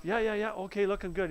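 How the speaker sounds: hurried brush-off. Retold or imitated. Rushing through client's plans.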